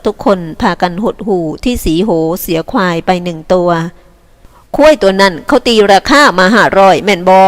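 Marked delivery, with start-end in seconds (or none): 4.2-7.4 asking. Acted. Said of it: "ทิศสุบินถามสีโห".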